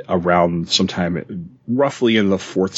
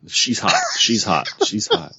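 soundboard clip voice; 2 semitones higher than usual. Pretend. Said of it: "there would just be a button".

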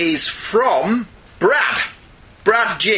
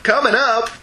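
announcer flourish; 5 semitones higher than usual. Real, not acted. Host teasing upcoming emails with an announcer's flourish. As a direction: sell it like a show announcer. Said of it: "so they're coming up".

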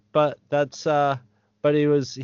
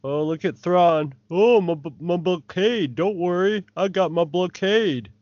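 lightly voiced smug Thrawn, a bit higher; mocking Thrawn; 4 semitones higher than usual. Mocking Thrawn bragging about his blockade. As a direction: brag like a smug admiral. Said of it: "my only other note is".

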